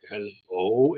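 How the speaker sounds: a low, slow "Hello" like a deep baritone butler; lightly voiced Lurch-like butler greeting. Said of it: "he had the deepest baritone".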